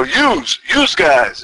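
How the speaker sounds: "Yous" said as yooz, one syllable; Philly plural you. Shown as a demonstration. Showing how Philly addresses several people, "Yous" as yooz. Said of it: "like up north, in Philly".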